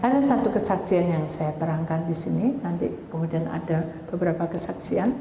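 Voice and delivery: usual speaking voice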